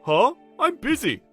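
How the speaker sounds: high, loud scoffing dismissal; annoyed at being bothered; irritated brush-off. Acted. Senior refusing to teach a newcomer, irritated.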